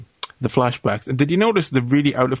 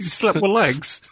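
teasing; 7 semitones higher, slower than usual. Real, not acted. Teasing friend about lyric.

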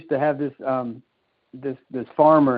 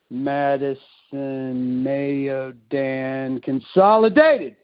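soft to sudden loud; 2 semitones lower, much slower than usual. Retold or imitated. Old dad reading the paper, soft to sudden loud. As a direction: read the paper aloud slowly, then blurt the last word. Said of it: "he'd go from soft to mid to just loud".

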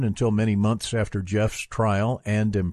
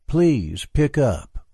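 slow plea, raised on a long "please"; eerie pleading; 4 semitones higher, much slower than usual. A narrator's reading. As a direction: draw out "please" in an eerie beg. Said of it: "in a voice that was eerily pleading".

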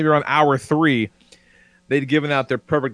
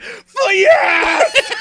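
much higher, louder cheer with a laugh; triumphant scream; 4 dB louder than usual. Retold or imitated. Retelling leaping up and screaming at the crash, much higher and louder. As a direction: scream it in victory. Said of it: "and screamed".

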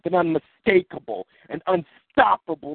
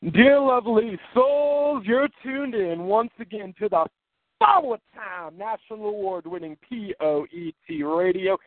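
radio announcer; 3 semitones higher than usual. Acted. Reads the station identification.

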